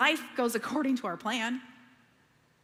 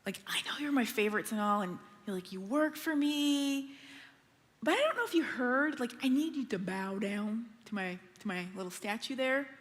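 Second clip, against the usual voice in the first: scheming king; 4 semitones lower, 5 dB quieter than usual. Retold or imitated. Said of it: "So he's like".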